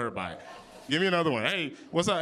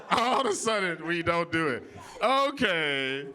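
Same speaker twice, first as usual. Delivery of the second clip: slower, drawn-out sarcastic repeat; sarcastic disbelief; slower than usual. Real, not acted. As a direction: stretch it out, pointedly unconvinced. Mock disbelief at audience's denial.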